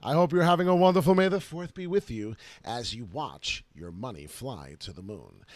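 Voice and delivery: ordinary talk, nothing marked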